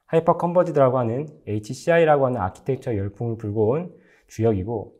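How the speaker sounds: ordinary talk, nothing marked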